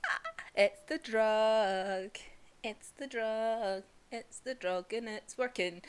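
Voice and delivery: slow, drawn-out, lightly drugged-sounding; dazed Tanjiro. Retold or imitated. Tanjiro realising he's drugged, slow and dazed. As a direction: drag the words like the drug is kicking in. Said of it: "And then Tanjiro just goes".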